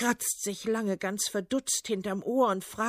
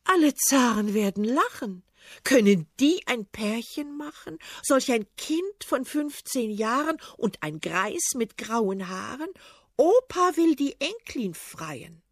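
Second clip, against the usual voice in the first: put-on louder, scornful young princess; lightly voiced princess, loud and mocking; 5 dB louder than usual. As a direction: laugh him off with scorn. Princess mocks old tsar.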